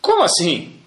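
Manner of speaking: slow, indignant rising question; mock outrage at being given fifth aliyah; offended disbelief. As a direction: act insulted by the offer. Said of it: "Ele falou".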